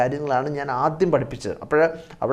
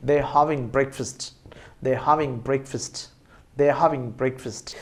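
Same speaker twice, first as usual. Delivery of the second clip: slow model sentence; 4 dB quieter, much slower than usual. Shown as a demonstration. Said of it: "നല്ല English".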